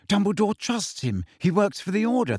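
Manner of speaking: high-pitched, exasperated insistence; angry. A narrator's reading. Hermione defending Snape to Ron, angry. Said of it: "said Hermione angrily".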